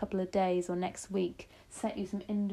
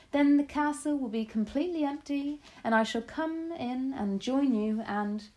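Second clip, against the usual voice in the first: eager storybook grandmother, planning; 7 semitones higher than usual. A narrator's reading. Grandmother laying out castle plan to grandchild, eagerly. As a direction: savour the plan as you lay it out.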